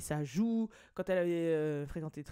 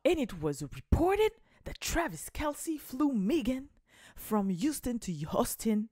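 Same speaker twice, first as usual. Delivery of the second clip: slow, stiff English read with a heavy French accent; reading the English article to fans in a clunky English accent; clumsy English accent; 4 semitones higher, slower than usual. Shown as a demonstration. Accent anglais maladroit et appuyé. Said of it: "mon accent était chiant".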